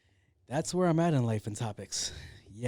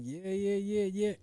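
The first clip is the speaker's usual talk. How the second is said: hyped nodding along; 7 semitones higher than usual. Retold or imitated.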